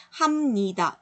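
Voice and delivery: 합니다 slowly as "ham-ni-da", with a clear m; nasal assimilation demo. Shown as a demonstration. Teacher confirming the correct reading, nasal assimilation demo. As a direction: sound the ㅂ of 합니다 as m, syllable by syllable. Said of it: "이렇게 읽는 게 맞다는 거죠".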